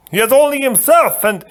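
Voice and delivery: a big polite man, puzzled; giant voice. Acted. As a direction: giant complaining to the Sicilian on his neck. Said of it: "Fezzik explained".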